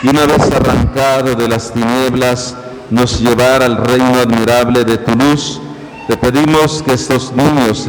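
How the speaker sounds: solemn, measured priestly prayer; liturgical prayer. Acted. Priest prays aloud.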